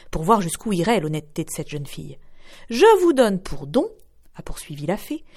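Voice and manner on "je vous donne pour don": slow, raised and louder solemn pronouncement; slow solemn fairy gift. Acted.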